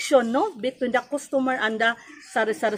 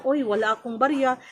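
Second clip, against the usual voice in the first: calm refusal. Shown as a demonstration. Store owner calmly refusing a customer asking for change. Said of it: "Mahinahon lang".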